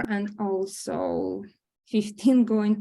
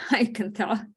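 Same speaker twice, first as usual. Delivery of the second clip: breathy whispered aside. Acted. Grandmother whispers an aside about the siblings. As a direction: whisper it fondly so no one hears.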